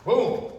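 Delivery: impact sound. Shown as a demonstration. Martial arts teacher marks a shove for students, punchy boom. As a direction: voice the hit with a short boom.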